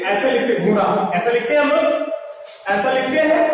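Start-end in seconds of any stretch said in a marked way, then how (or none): 0.1-0.8 घोड़ा said with a plain र sound; showing how it would be written; mock wrong spelling. Shown as a demonstration. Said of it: "अगर ऐसा होता तो हम लोग ये वाला नहीं लिखते". (गलत र वाला घोड़ा)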